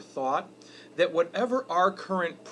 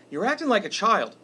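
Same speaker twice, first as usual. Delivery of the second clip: sharp scold, higher and louder; scolding son; 5 semitones higher, 5 dB louder than usual. Retold or imitated. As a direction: snap it at the kid like a fed-up dad. Father scolding son in retold argument.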